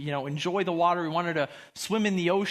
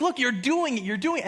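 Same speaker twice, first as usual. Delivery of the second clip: mild retold delight, slightly higher; excited encouragement; 4 semitones higher than usual. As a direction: lightly act out cheering on a dog. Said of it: "I'm just so excited".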